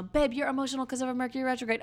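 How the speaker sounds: hammed-up little couple exchange; mock partner voice. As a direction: play both sides of a sweet couple. Voicing partner then herself.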